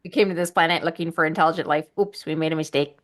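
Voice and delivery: quick, goofy alien visitor voice; light alien-visitor impression, played for laughs; Robin Williams. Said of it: "Rest in peace, Robin Williams".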